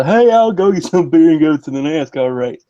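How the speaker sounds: loud stereotyped South Carolina trailer park accent. Shown as a demonstration. Demonstrating the state's stereotype, trailer park accent. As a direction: put on a brash trailer park Southern twang. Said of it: "trailer park accent that seems to stereotype the entire state".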